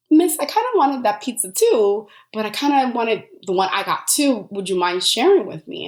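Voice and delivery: polite stranger. Retold or imitated. Stranger asks to share pizza.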